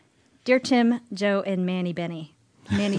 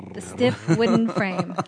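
suggestive; 4 dB louder, slower than usual. Acted. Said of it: "make her dream more exciting".

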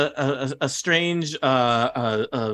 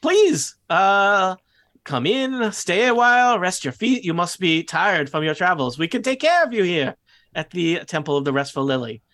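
put-on high, enthusiastic French-style goblin accent; Saith, goblin accent; 5 semitones higher than usual. Saith urging tired travellers to rest, eager goblin accent. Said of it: "very enthusiastic to shake hands".

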